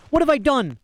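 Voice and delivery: high, distraught questioning; bewildered cry. A narrator's reading. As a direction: plead innocence in high-pitched bewilderment.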